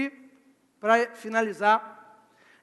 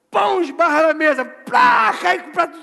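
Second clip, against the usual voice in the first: loud, high, explosive storytelling; sudden booming re-enactment of a clumsy accident; mimicked crash; 5 semitones higher, 9 dB louder than usual. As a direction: shout out the crash like a sound effect.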